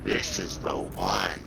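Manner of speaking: voice changer voice. Acted. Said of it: "this voice changer".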